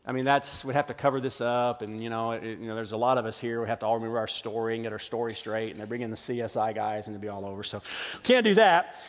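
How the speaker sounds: scheming brothers. Retold or imitated. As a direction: plot the cover-up under their breath. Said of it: "the other brothers say".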